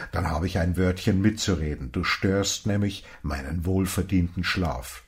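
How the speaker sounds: a hint of a grouchy old stranger scolding; grumpy old man woken. Old man scolds Johnson for waking him, mildly gruff.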